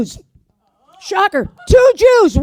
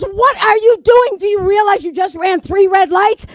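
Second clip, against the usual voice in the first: alarmed scolding; 3 semitones higher, 3 dB louder than usual. Acted. Passenger to old lady running red lights, alarmed scolding. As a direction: scold the driver in mock alarm.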